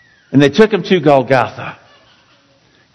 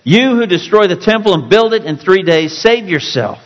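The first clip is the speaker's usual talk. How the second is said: taunting; 5 semitones higher than usual. Acted. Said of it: "blasphemed him ... wagging their heads".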